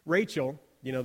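normal talking voice

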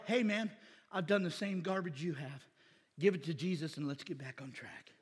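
soft, low, kindly reassurance; gentle encouragement. Retold or imitated. A friend gently encouraging a fallen brother, soft and kind. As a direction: talk him back like a friend.

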